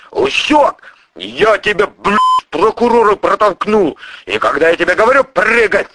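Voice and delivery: high, loud, swearing tirade; a crime boss chewing out his prosecutor; furious boss. Acted. Boss character's long rant.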